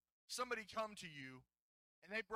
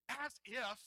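higher-pitched, playfully dismissive; acted-out nineties catchphrase; 4 semitones higher than usual. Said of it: "make sure we act it out".

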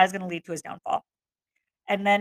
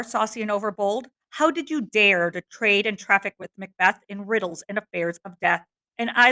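dramatic reading; 3 dB louder than usual. Acted. Reads Hecate's monologue aloud.

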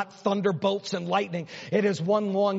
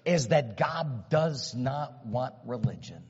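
voicing David; 3 semitones higher than usual. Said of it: "David's crying and David's saying".

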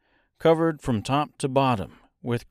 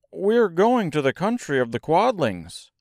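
higher-pitched storybook Scarecrow; Scarecrow's voice; 5 semitones higher than usual. Acted. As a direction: explain it in a raised Scarecrow voice. Scarecrow explains their journey.

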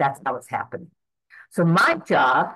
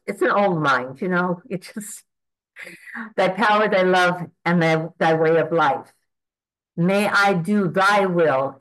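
devoted prayer, leaning on thy power and thy love; earnest prayer. Acted. Praying to God for his power and love, devoted. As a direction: pray each phrase as an offering.

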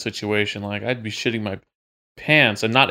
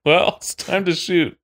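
calm deadpan; 6 semitones higher, slower than usual. Retold or imitated. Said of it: "and you're like".

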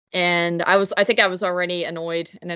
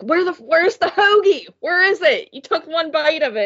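much higher, indignant mock yell; angry demand; 11 semitones higher, 3 dB louder than usual. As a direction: demand it from him, half-acted anger. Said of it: "this huge fight".

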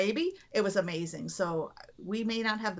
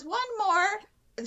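doctor urging a push; 9 semitones higher, 3 dB louder than usual. Retold or imitated. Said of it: "as he says".

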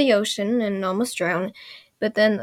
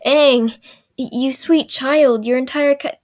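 slow, louder, higher pitying address; mock pity; 3 semitones higher, 5 dB louder, slower than usual. Narrator about to break bad news to Aang, mock pitying. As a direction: draw it out as if to a poor innocent.

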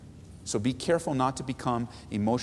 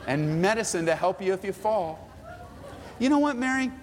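tender mercy; 3 semitones higher than usual. Shown as a demonstration. Pastor voicing a merciful friend comforting scared Mary, tender. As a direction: comfort her fears gently. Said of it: "might sound something like this".

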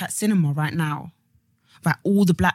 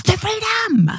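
high, loud, cracking cry of the freedom; hammed-up shout; mock dramatic cry; 4 dB louder, slower than usual. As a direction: wail it like a battle cry. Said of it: "I keep saying".

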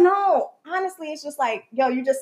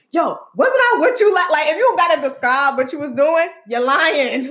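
a hint of a pushy guy, raised and louder; mocking the ex's homie; 4 semitones higher, 5 dB louder than usual. Imitating the homie vouching for her ex, mildly raised. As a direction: mimic him coaching his friend. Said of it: "He was like".

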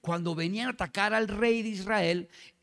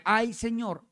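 mildly anguished cry to God, slightly raised; 4 semitones higher, slower than usual. Shown as a demonstration. Coaching the frightened servant's line, mild anguish. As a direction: act out a touch of anguish, pitch lifted. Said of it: "como con angustia".

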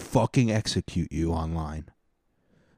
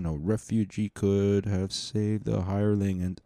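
measured reading of verse lines; poem recital; 4 dB quieter than usual. Acted. Podcaster reading anthem verses to listeners, measured recital. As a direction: read the stanza steadily, like a recital.

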